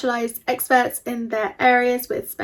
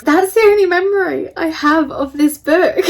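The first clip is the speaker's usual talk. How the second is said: louder, higher, through real laughter; laughing; 5 semitones higher, 9 dB louder than usual. Real, not acted. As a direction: burst out amused while talking. Amused after her acted quote.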